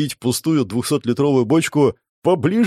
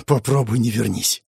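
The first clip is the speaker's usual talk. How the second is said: understated, rueful reply; a touch of sad resignation; mournful. A narrator's reading. Conductor explains why nobody stays across, mildly mournful. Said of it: "печально покривился кондуктор".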